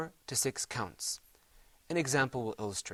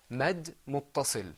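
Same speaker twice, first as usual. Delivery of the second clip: slow and clear; slower than usual. Shown as a demonstration. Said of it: "Repeat after me".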